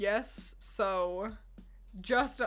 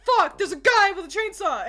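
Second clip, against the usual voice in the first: much higher and louder mock panic; startled yell; 8 semitones higher, 10 dB louder than usual. Player spotting a chainsaw guy in gameplay, startled yell. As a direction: yelp it like a spooked player.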